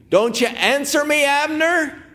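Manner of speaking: high, loud call across a distance; a preacher voicing David calling out, high and loud. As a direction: shout it across the valley to Abner. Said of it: "David started crying out loud".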